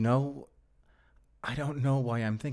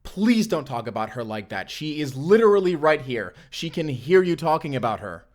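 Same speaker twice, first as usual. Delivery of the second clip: heated plea; 4 semitones higher, 4 dB louder than usual. Acted. Pleading defence of girl.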